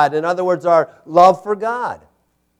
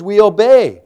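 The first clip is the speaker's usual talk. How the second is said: loud, raised preacher's conclusion; forceful declaration; 5 semitones higher, 7 dB louder than usual. Real, not acted. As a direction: drive it home at full voice. Forceful conclusion, later repeated softly.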